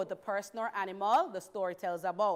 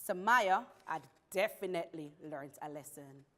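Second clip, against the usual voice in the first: lower, measured storybook ending; story narration; 4 semitones lower than usual. Acted. Teacher closing the pencil story for the class, measured narration. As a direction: wind the tale down with deliberate phrasing.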